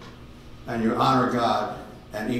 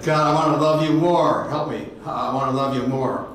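crying out to God; 2 semitones higher than usual. Retold or imitated. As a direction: call out to God, begging. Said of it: "I cried out to God".

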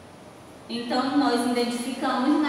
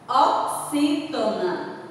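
oxítona broken into slow syllables; drawn out slowly; much slower than usual. Shown as a demonstration. Teacher classifying café for the class, drawn out slowly. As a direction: stretch out each part of oxítona.

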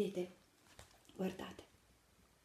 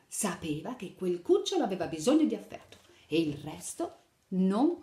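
put-on lively read-aloud to little children; animated picture-book narration; storytelling; 4 dB louder than usual. A narrator's reading. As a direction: tell the fairy tale brightly to kids. Reads Tarzan story to children.

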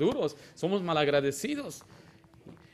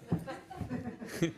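soft laugh; 7 semitones higher, 10 dB quieter than usual. Real, not acted. Laughs about his deafness.

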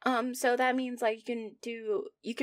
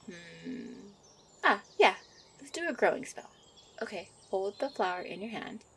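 a gentle witch fussing over her sweetheart; a hint of a bubbly witch girlfriend; young witch character.

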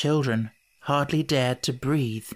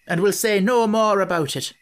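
louder, hearty and final; 6 semitones higher, 5 dB louder than usual. Acted. Pharaoh ending the quarrel, louder hearty tone. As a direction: cheerfully close the matter. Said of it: "said Pharaoh heartily".

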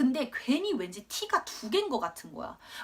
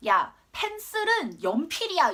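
bossy little teacher; 6 semitones higher, 5 dB louder, slower than usual. Retold or imitated. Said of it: "애들을 한국말을 가리키고".

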